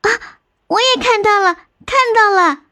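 very high, thrilled exclamation; excited discovery. Acted. Elder sister finally seeing the cave too, thrilled. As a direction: burst out with delight at finding it.

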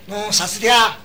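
put-on Shanghai accent. 说话人学上海服务员的上海话，声音更响. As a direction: mimic the Shanghai waiter. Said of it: "我说：".

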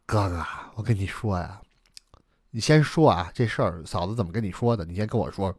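low, cautious younger brother; lightly voiced younger brother. Younger brother asking what sister-in-law said, lightly voiced, cautious. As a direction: feel out the elder brother, a touch subdued.

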